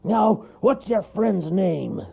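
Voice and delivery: cross storybook bear; growling bear. A narrator's reading. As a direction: lay down the law gruffly. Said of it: "growled the bear".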